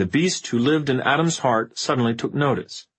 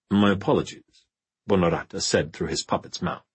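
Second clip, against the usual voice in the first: cold vampire lord voice. Acted. Bonorata speaking through puppet.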